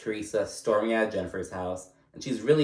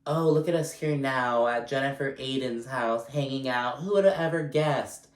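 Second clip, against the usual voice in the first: higher-pitched, pointed fake surprise; mock innocent remark; 4 semitones higher than usual. Melissa digging at Jen over their past beef, mock innocent. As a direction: imitate a loaded, singsong dig. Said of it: "basically being like".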